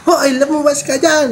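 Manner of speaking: high, slow mock yell with a laugh; retold yelling. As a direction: call the neighbour out, laughing. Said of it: "Sinisigawan ko yun". (pasigaw na tawag, may tawa)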